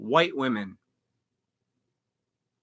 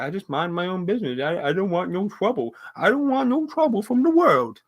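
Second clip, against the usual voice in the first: mocking timid people; 3 semitones higher than usual. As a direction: sneer at the passive bystander who wants no trouble. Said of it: "those fucking people that".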